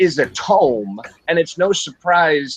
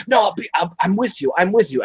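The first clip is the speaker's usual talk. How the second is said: lightly mimicked, higher-pitched hasty reassurance; Javier Bardem; 6 semitones higher, faster than usual. Host voicing the writer promising to stay, lightly placating. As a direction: imitate a husband placating, pitched up. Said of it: "with Javier Bardem going".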